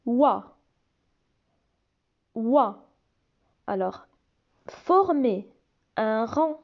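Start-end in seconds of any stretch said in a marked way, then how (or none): 0.1-2.9 wa said as a clear w plus a; vowel demo; oi sound. Shown as a demonstration. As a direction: model the wa sound. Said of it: "O I se prononce".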